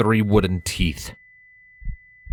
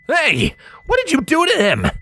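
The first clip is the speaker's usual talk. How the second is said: loud, high angry demand; 4 dB louder than usual. A narrator's reading. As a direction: confront her sharply. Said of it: "Noteworthy's voice demanded".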